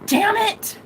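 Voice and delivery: high, drawn-out mock yell; hammed-up cry of frustration; imitated frustrated yell. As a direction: act out his pissed-off outburst, slowly.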